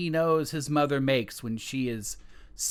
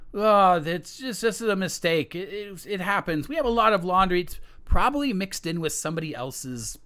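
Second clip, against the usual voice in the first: nervous son; 7 semitones higher, 4 dB louder, faster than usual. Acted. Son reassures the king.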